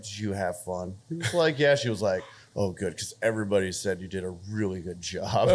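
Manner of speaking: soft quoting. Retold or imitated.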